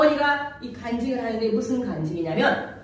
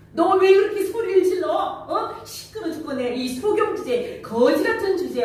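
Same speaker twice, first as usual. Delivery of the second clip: scolding crowd; 5 semitones higher than usual. Retold or imitated. The crowd scolding Bartimaeus to hush, mock scold. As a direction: shoo the blind beggar away with a mock rebuke. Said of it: "꾸짖어서 잠잠하라는 거예요".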